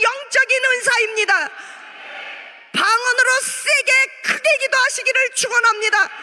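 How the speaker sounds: sustained preacher's blessing with held endings; fervent preaching. Real, not acted. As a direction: urge the congregation with full force. Exhorts congregation at full force.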